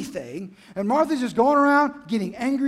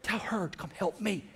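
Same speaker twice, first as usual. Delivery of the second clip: much softer, tightly held demand; suddenly restrained demand; 3 semitones lower, 7 dB quieter than usual. Acted. Martha turning from Mary to Jesus, soft restrained demand. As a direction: drop the volume right after ranting. Acted Martha, drops after outburst.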